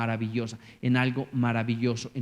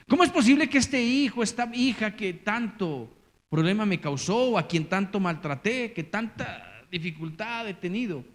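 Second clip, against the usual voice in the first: amazed parent; 3 semitones higher than usual. Retold or imitated.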